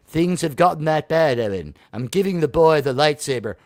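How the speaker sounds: low, lightly acted film-hero voice; grave guardian. Acted Obi-Wan scene, grave low voice.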